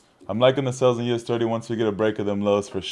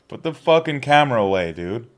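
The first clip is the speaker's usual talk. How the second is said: firm and a bit louder, less of a yell; annoyed repeat; 4 semitones higher, 4 dB louder than usual. Real, not acted. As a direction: repeat the order, still irritated.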